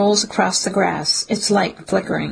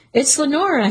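yelling; 7 semitones higher than usual. Acted. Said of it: "he yells".

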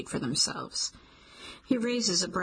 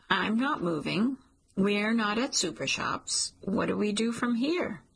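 careful; 2 semitones higher than usual. Acted. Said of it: "Cliff says carefully".

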